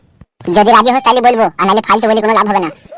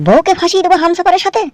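much higher, incredulous; can't believe what he just heard; shocked husband repeating the plan about his wife; shocked question; 9 semitones higher than usual. Acted. Stunned by plan to use wife.

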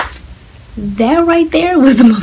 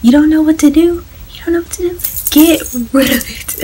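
raised, angry grandmother voice; angry grandma; 6 semitones higher than usual. Retold or imitated. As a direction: mimic the furious grandma. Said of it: "she was so mad".

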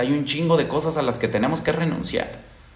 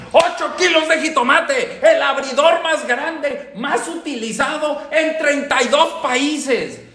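high, slow, drawn-out TV-ad announcer voice with a laugh; mock announcer; 11 semitones higher, slower than usual. Temach parodies a TV ad announcer to his followers, slow, high and hammed-up. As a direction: sell tomatoes like a hammed-up commercial.

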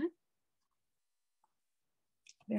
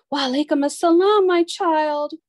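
warm; 6 semitones higher, 6 dB louder than usual. A narrator's reading. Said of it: "said the old woman warmly".

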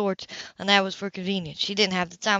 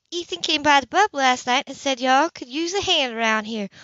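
put-on higher, friendly young woman's voice; an easygoing neighbour offering help; Grace, friendly; 5 semitones higher than usual.

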